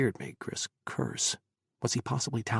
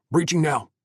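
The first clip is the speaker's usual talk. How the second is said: shouted command; 4 semitones higher, 5 dB louder than usual. Acted. Soldiers raid a shop.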